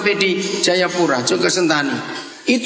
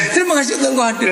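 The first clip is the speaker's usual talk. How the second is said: farmer's cry; 9 semitones higher, much faster than usual. Retold or imitated. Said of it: "kenapa dia teriak".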